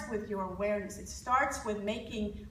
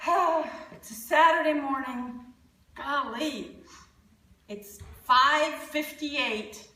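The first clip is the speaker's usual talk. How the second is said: grumpy morning sigh; 2 semitones higher, slower than usual. Shown as a demonstration. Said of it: "So when I say".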